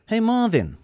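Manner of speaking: high, loud call across the room. Acted. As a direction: summon the robot. Calling the robot across room.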